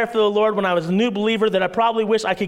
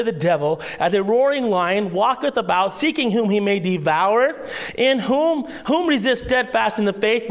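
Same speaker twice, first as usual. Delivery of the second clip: scripture reading. Acted. Reads First Peter chapter five.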